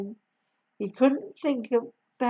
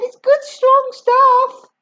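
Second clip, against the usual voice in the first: put-on higher, calm-ish boy's voice; George reassuring; 13 semitones higher, 7 dB louder, slower than usual. A narrator's reading. George calming Grandma, higher boy's voice. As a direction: brush it off lightly. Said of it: "George said".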